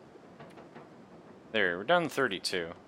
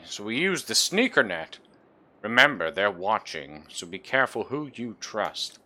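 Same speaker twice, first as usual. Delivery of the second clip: fiery revolutionary speech; 4 dB louder than usual. Acted. Reading rebel note aloud.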